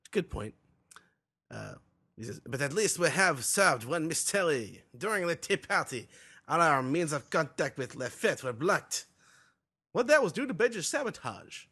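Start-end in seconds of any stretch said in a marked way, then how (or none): 2.4-11.7 lightly voiced Montdor, a bit slow; a hint of a rough official; mildly put-on character voice. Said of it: "I love your Montdor voice".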